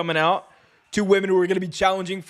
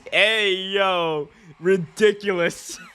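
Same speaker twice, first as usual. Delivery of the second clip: ordinary talk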